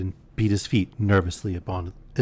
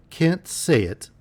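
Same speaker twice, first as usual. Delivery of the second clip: slow, much higher disbelieving echo; incredulous; 8 semitones higher, much slower than usual. Acted. Niece repeating her uncle's refusal in slow high disbelief. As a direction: stretch it out, stunned and high.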